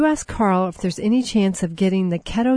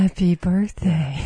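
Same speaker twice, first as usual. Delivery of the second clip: slow breathy happy birthday; Marilyn Monroe breathy voice; slower than usual. Shown as a demonstration. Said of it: "You have to have that breathy voice".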